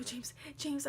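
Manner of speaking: whispered urgent calling of a name; hushed, pressing call to wake him. Retold or imitated. Waking her boyfriend in the night, urgent whisper.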